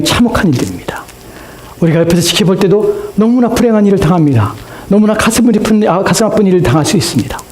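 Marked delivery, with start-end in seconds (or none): 1.8-7.4 higher-pitched sermon delivery; impassioned preaching. Acted. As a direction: lift the voice as the sermon builds. Preaches with rising force. (목소리를 높여 설교하듯)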